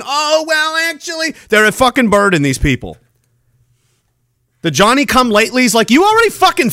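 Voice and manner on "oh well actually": mock know-it-all. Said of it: "and they'll fucking".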